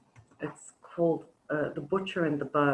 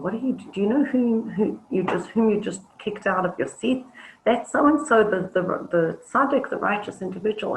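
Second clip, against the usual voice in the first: higher, louder, aghast reproach; shocked scolding; 6 semitones higher, 6 dB louder than usual. Acted. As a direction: hiss out how could you not know. Congregant tells man who rebbe is.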